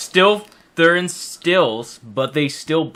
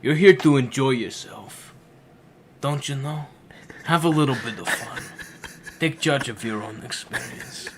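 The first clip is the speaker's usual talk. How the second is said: Ocean. Acted. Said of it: "do the voice of Ocean".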